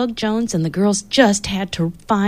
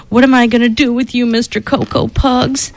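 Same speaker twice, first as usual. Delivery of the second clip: scolding; 3 semitones higher than usual. Acted. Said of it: "she scolded".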